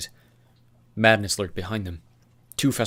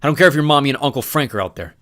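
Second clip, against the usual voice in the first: mild threat; 5 semitones higher, 9 dB louder than usual. Acted.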